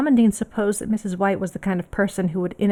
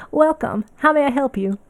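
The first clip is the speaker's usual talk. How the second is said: welcoming shopkeeper; 7 semitones higher, 5 dB louder than usual. Acted. Shopkeeper greets a customer.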